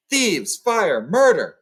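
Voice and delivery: loud, high outraged yells; a dragon roaring at thieves; furious shout. Acted. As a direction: bellow it like a robbed dragon. Dragon discovers theft, shouting.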